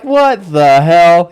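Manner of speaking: hammed-up retold freak-out. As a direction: drag out the words like a guy losing it. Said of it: "And he's losing it. He's freaking out".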